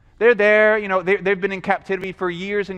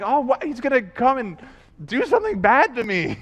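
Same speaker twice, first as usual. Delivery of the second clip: mock fearful child; 4 semitones higher than usual. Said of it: "you're full of fear".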